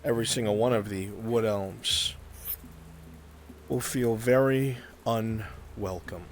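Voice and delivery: measured, deliberate scene-setting with pauses; game master narration. Acted. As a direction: set an uneasy scene, phrase by phrase.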